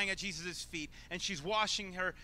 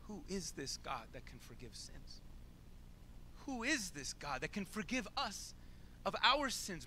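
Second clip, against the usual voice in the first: quieter, earnest asking of Who is this God; sincere; 3 semitones higher, 4 dB quieter than usual. Shown as a demonstration. Preacher asks the congregation to wonder sincerely. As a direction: ask it in real wonder. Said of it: "I dare you to ask that question seriously".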